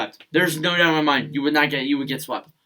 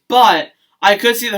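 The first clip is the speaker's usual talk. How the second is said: voice crack; 5 semitones higher, 6 dB louder than usual. Real, not acted. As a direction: voice cracking mid-sentence. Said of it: "Excuse me, voice crack".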